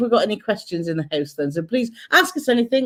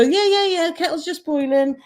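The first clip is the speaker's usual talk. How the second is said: imitating husband; 8 semitones higher than usual. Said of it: "this is how it starts".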